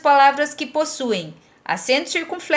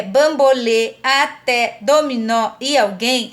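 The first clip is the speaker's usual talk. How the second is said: slow "bambolê, até, dominó e alguém", endings leaned on; deliberate word list "bambolê, até, dominó e alguém", strong endings; final-syllable stress; slower than usual. Shown as a demonstration. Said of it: "são acentuadas na última".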